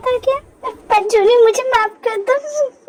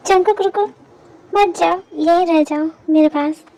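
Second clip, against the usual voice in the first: tender plea; 4 semitones lower than usual. Acted. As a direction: gently beg them to stay, unhurried. Begs him not to leave.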